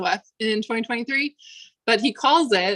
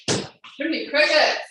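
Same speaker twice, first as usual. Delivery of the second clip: wheezy voice; 5 semitones higher than usual. Real, not acted. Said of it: "spice in my throat".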